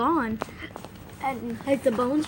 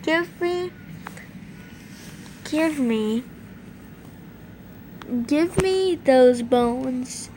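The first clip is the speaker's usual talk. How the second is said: slow demand; much slower than usual. Acted.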